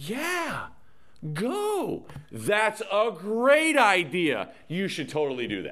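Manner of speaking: sarcasm laid on thick, high and swooping. Retelling how God said verse 15, acting out heavy sarcasm. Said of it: "he probably would have said it more like this. ... There was just dripping with sarcasm".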